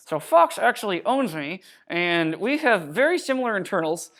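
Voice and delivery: ventriloquist voice, lips still; lips barely moving. Shown as a demonstration. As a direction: speak without moving your lips. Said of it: "I should be doing a ventriloquist voice".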